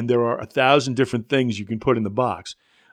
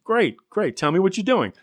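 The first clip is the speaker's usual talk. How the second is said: bright, much higher "great, great" to the caller; eager reply; 7 semitones higher than usual. Retold or imitated. Answering the advisor's call, eager and high-pitched. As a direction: pump up the enthusiasm, high and quick.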